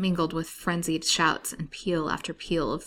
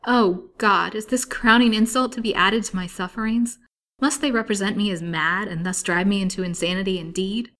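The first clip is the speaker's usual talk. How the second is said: loud, raised, anguished appeal; passionate outcry; 3 semitones higher, 8 dB louder than usual. A narrator's reading. Patient treated as mad, passionately protesting. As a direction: cry out against a crowning insult. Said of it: "cried Lily passionately".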